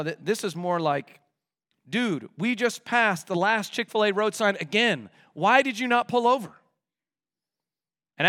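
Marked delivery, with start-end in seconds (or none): 1.9-6.6 mildly exasperated complaint, rising in pitch; grumbling. Acted. Passenger grumbling at a friend for not pulling over, exasperated. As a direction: complain to the driver, a touch indignant. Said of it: "That's grumbling".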